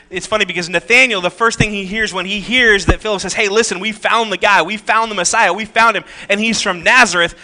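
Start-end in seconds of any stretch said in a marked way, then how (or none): 3.3-7.3 acting out an eager messenger, higher-pitched; excited announcement. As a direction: imitate someone rushing to share big news. Philip excitedly reports finding the Messiah.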